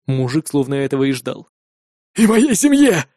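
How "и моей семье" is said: a raised, hoarse demand for his family too. A narrator's reading. Captured father bargaining for his family, hoarse demand. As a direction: rasp it out as a demand, higher and louder. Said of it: "хрипло потребовал он".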